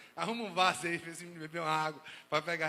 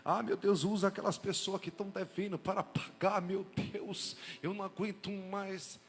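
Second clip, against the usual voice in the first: mock desperate prayer. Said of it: "tem hora que você não tem mais".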